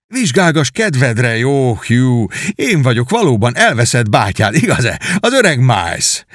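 beam with pride while being examined; joyful Miles. Acted. Knight urging his brother to inspect him, lightly joyful.

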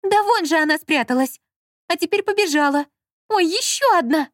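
high, loud frightened yelling; a high terrified cry clinging to partner; panicked yelling. Acted. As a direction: yell in panic, pointing. Lola panicking about mice.

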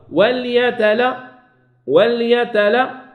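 وليتل- cut off, then وليتلطف, slow with a rise; slow broken demo. Shown as a demonstration. Teacher pauses on the lam to show its point, slow demo. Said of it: "نوقف باش نمكناش المخرج".

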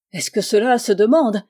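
plus fort, élan joyeux; s'exclamer avec transport; exclamation enthousiaste. Acted. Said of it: "s'écria la mère avec transport". (la mère ravie s'écrie devant Malisov)

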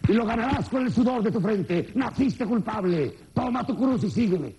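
a hammed-up priest laying guilt on the faithful; the priest at mass telling the boy he was born guilty; preaching priest.

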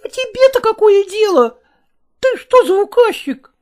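put-on a small boy snapping back rudely. Boy snapping back at his stepfather, high and loud. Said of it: "Васютка огрызнулся".

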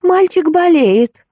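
ordinary delivery, nothing marked

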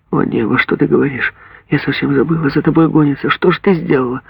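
put-on sudden dread for her child; lightly voiced worried mother; alarmed mother. Mother realises daughter is hunted.

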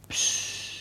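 tonloses Zischen um Ruhe; Psst geflüstert. Acted. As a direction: ganz leise, mahnend psst. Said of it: "legt den Finger an die Lippen". (Herr gebietet flüsternd Schweigen, tonlos)

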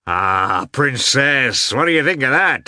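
beaming, loud greeting; joyous. A narrator's reading. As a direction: burst in high and delighted. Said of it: "beaming with a joyous smile".

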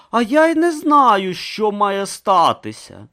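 puzzled Brutha. Acted. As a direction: answer innocently and slowly. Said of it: "озвався Брута".

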